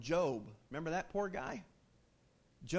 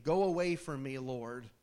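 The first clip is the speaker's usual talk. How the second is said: anguished plea; 2 semitones lower than usual. Retold or imitated. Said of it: "here's Peter's response".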